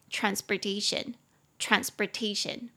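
transportation with "sper" in place of "spor"; American pronunciation. Shown as a demonstration. Teacher repeats for Taiwanese learners, transportation in American pronunciation. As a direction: say transportation slowly, middle syllable reduced to "sper". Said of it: "所以美式发音是台湾人比较听".

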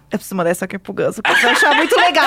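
laughing as they quote a friend; imitated amused talk. Host quoting her partner sharing something funny, laughing. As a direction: mimic someone chuckling through his words. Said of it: "ele dá risada, ele fala".

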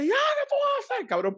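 very high imitated woman's yelp; mock alarmed protest. He imitates his date objecting in alarm, high mock yelp. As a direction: squeal it in protest, put-on.

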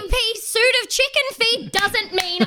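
high mock-indignant protest; mock offended. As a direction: play the wronged victim, hammy.

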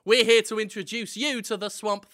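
usual speaking voice

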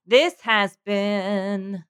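very slow robotic drawl. Pretend. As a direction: stretch it out like a robot. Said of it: "this robot voice".

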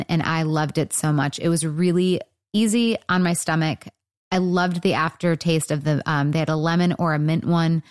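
upbeat sponsor read. Acted. Podcast host reading a store sponsor spot, upbeat ad read. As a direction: sell it like a friendly host ad.

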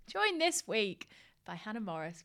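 careful retake. Real, not acted. Host redoing her fluffed guest introduction, slow and careful. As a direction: start the intro over slowly and carefully. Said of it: "I can't speak".

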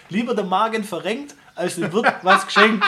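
laughing. Real, not acted. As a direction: rhyme spoken through laughter. Recites saying while laughing.

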